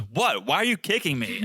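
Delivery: mock clueless question, pitch lifting; a light imitation of a puzzled protest; lightly imitating Teresa. Co-host mimics Teresa kicked under table, mildly mock-puzzled. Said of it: "literally Teresa goes".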